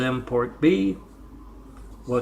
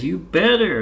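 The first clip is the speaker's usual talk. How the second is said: angry threat; 5 semitones higher, 6 dB louder than usual. Acted. Angry customer threatens on phone.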